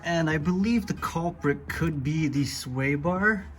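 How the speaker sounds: talking while lying under a car; strained, lying on your back under a car. Real, not acted. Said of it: "I'm under the car".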